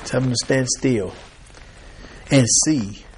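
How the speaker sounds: unhurried, steady and calm; very calmly. Retold or imitated. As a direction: say it like God soothing a scared crowd. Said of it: "very calmly".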